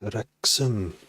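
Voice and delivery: "Wrexham" with a heavily rolled R. Shown as a demonstration. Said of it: "roll my R's a little bit more".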